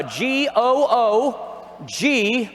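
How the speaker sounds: spelled out very slowly, letter by letter; teasing slow dictation; slow spelling. Shown as a demonstration. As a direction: drag out each letter for note-takers. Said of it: "Write this down".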